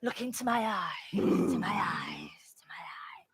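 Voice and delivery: low, soft voice fading to a whisper; hypnotist. Acted. Sam hypnotising Feeney, low fading murmur.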